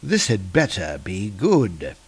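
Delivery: a grumpy ancient beast woken up; dragon voice. Acted. The dragon rises from the sea, low grumpy menace. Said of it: "he's saying".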